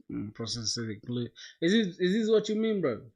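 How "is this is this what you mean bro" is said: incredulous. Real, not acted. Reacting to search result.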